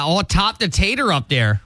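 hammy Minnesotan imitation; Minnesota mom accent. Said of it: "Minnesota mom accent comes out".

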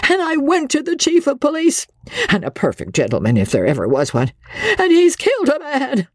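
high, quavering frantic voice; wife's high, quavering panic. Acted. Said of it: "Her voice was high and quavering".

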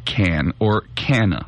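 Cannes said like "can", or "CAN-uh"; correct pronunciation of Cannes. Shown as a demonstration. Host reading the correct way to say Cannes, instructive. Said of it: "The correct pronunciation is".

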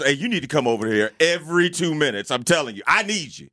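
pleading, needy tone; desperate. Retold or imitated. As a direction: beg the waitress to stay. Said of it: "Why'd you sound desperate?".

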